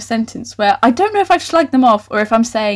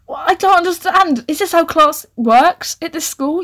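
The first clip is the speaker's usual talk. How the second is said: mock confusion; 6 semitones higher than usual. Real, not acted.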